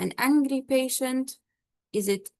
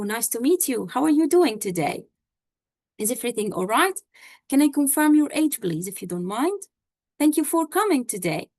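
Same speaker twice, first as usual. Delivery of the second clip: confident friendly doctor; 2 semitones higher than usual. Shown as a demonstration. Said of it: "a doctor who is confident in himself, he's friendly, he has a very nice smile".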